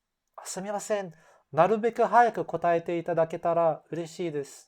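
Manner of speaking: pleading, sorry tone, quickening; apologetic with puppy eyes. Shown as a demonstration. Apologizing to a colleague, pleading and sorry. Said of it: "you try to speak with a little bit of emotion".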